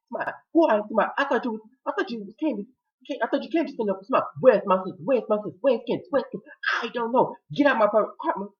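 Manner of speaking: high-pitched acted argument; frantic quarrel. Two men argue over missing Candace, high and frantic. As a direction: rattle it off in high mock indignation.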